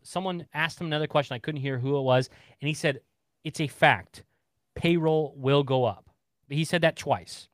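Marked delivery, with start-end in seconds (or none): 3.4-6.1 slow, measured emphasis on each word; emphatic quote. Retold or imitated. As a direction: quote him firmly, word by deliberate word. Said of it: "he was pretty emphatic".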